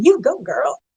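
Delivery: dated cheery mom voice. Retelling what a mother said in the nineties: imitating my mother. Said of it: "my mother in the nineties going".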